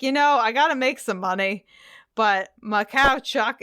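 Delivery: lightly voiced Canadian farmer; a hint of a put-upon Canadian dairy farmer; Canadian farmer grumbling about his cow; mild Canadian farmer. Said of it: "I don't think your accent was Canadian".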